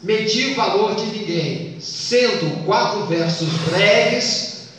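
slow, measured verse scansion; deliberate recitation for counting; counting poetic syllables. Shown as a demonstration. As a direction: draw the lines out so each syllable counts. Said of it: "Se conta a sílaba".

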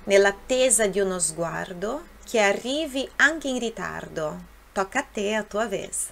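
measured model reading in Italian; read aloud for repetition. Shown as a demonstration. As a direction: read each verse clearly for learners to follow. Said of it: "eu vou ler e vou deixar um tempo".

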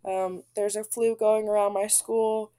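sick, groggy voice with a cold. Real, not acted. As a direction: talk through a flu, groggy and stuffy. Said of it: "even through my groggy voice".

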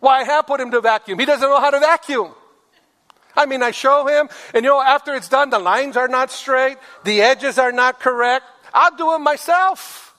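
exasperated wife. Retold or imitated. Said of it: "they say".

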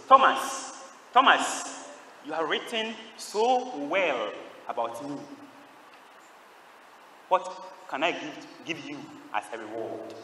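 slow, measured divine voice calling out the name, then softening; voice from the cross. Acted. Jesus speaks from the cross to Thomas, slow voice from the cross. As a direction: call the name firmly, then speak slowly and solemnly. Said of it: "a voice from the cross spoke to him".

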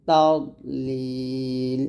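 তাদলিল slow, দ not bounced, vowel held; smooth dal. Shown as a demonstration. Teacher showing students the correct smooth dal. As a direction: draw তাদলিল out slowly. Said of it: "তাদ বলবেন না".

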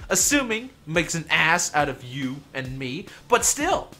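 loud, heated ranting; angry rant. Real, not acted. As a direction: rant loudly and high. Ranting at another player.

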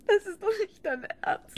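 high, loud disbelieving cry; shocked outcry. Acted. Wife crying out, appalled at husband's words.

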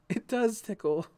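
high-pitched, giggly surprise; high, tickled discovery; delighted exclamation. A narrator's reading. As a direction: exclaim while being tickled. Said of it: "she exclaimed".

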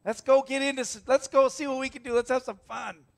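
put-on high, loud, eager young voice; eager teen. Young Jonathan urging his armor bearer on, eager and loud. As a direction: rev up like a kid looking for trouble. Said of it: "he's just like".

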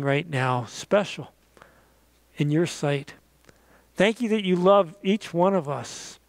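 closing prayer. Acted. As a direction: pray gently over the listeners.

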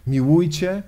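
"Miłujcie" rising into a question; quizzical quoting. Acted. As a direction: quote "Miłujcie" with doubting upward lilt. Quoted command held up as question. („Miłujcie” z pytającą, wznoszącą intonacją)

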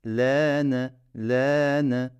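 L stretched one beat longer; teacher drawing out the L; lengthened vowels. Shown as a demonstration. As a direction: hold the L sound a little. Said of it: "Bir tık daha uzattım".

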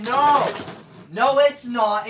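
high, loud cry of no; shocked protest. Real, not acted. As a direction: shout it in disbelief. Battle turns against the prediction.

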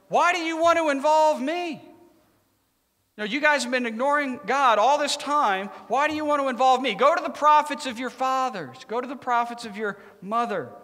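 high-pitched acted indignation; attitude. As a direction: retort to the king, imitating a fed-up prophet. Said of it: "He's cu-, getting an attitude".

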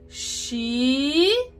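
CHINELO lento, separado em chi, ne, lo; sílaba por sílaba. Shown as a demonstration. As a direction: draw out each syllable of "Chinelo". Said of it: "nós vamos juntar as palavras". ("Chinelo" silabado, bem devagar)

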